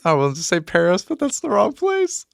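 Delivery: put-on squeaky failed British accent, laughing at himself; bad British accent attempt. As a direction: fumble a posh London welcome and give up. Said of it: "I won't have an accent".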